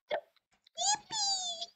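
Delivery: shrieking jackpot winner. Pretend. Ironic cheer stuck in jail.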